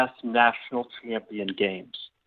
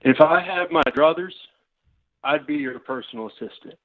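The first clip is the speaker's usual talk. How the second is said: Southern grandfather. Acted. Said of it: "Why are you talking like this?".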